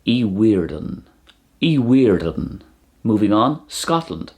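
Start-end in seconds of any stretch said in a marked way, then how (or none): 0.0-1.0 Iwerddon said as ee-WEER-dhon; Welsh pronunciation. Shown as a demonstration. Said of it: "it's pronounced". 1.6-2.6 Iwerddon drawn out as ee-WEER-dhon; Welsh pronunciation. Shown as a demonstration. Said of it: "it's pronounced".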